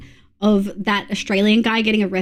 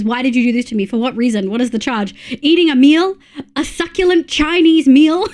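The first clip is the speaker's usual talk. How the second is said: indignant arrested man. Retold or imitated. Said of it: "he says".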